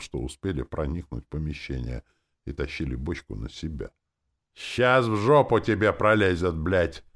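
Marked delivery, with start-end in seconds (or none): 4.5-7.0 loud, hoarse bossy threat; menacing sergeant rasp; gruff commanding voice. Acted. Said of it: "грозно ответили ... сиплым начальственным голосом".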